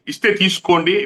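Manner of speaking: mocking "ఇస్తే తీసుకోండి" with ఇస్తే stressed and falling; sarcastic. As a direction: sneer it, as if the offer were a joke. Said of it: "వ్యంగ్యంగా".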